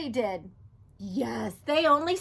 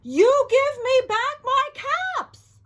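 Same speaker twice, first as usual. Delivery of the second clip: high, loud, slow scolding; scolding peddler; 12 semitones higher, 9 dB louder, slower than usual. Acted. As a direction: wag a finger and scold. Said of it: "he said, shaking a finger".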